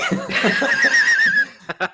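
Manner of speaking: squealing high-pitched laugh; high burst of laughter. Real, not acted. Cohost cracks up.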